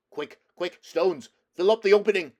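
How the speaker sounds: frantic call to block the hole; urgent shout. Acted. Puddleglum urgent in cave.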